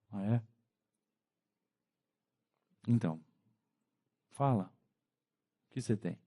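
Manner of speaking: soft, low, patient voice inviting the sinner to speak; quiet, tender listening; gentle God. Acted. Deus respondendo ao fiel. (Deus falando baixinho e acolhedor com quem chora)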